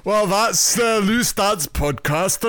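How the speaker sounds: high, slow, badly faked accent; Jim. Shown as a demonstration. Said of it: "I couldn't do his accent".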